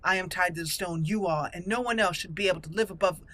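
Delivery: haughty noble rebuking a petitioner; indignant, formal in-character speech; proud dwarven noblewoman. Acted. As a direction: lay down the law with aristocratic conviction. Player voices proud noblewoman answering Lord Dace.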